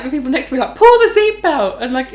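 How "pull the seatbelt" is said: high, loud, stretched-out plea; retold freak-out. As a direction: act out a frantic, slowed yell. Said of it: "I was freaking out".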